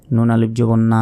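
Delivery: final না held long; না lengthened for one beat; one-second stretch. Shown as a demonstration. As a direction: draw out the vowel of the last না. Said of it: "এক second টান".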